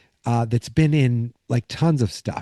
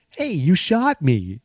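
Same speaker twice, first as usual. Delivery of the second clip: higher, drawn-out slow retort; mock protest; 5 semitones higher, slower than usual. Doped-up Artie to the woman he grabbed, mock protest. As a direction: stretch it out as a cheeky excuse. Artie excuses himself to Laurie.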